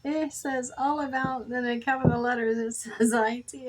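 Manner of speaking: getting worked up telling the store name; excited retelling. Retold or imitated.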